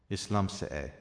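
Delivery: Is liomsa é with liomsa stressed as "LUM-sa"; emphatic liomsa. Shown as a demonstration. Irish teacher demonstrates the emphatic liomsa form. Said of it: "the emphatic liomsa instead of lum".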